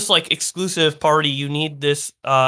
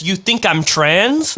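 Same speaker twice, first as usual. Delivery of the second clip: slow incredulous; 3 semitones higher, much slower than usual. Retold or imitated. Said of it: "Emma says".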